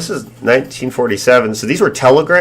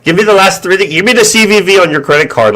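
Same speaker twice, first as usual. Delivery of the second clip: higher, demanding caller voice; pushy scam caller; 6 semitones higher than usual. Retold or imitated. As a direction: badger them for the card number.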